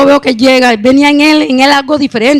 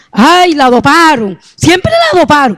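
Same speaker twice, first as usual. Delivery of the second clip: imitated wailing; 3 semitones higher, slower than usual. Mourners at the first coffin lamenting, imitated slow wail. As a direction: imitate mourners crying out, stretching the words. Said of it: "lloraban y decían".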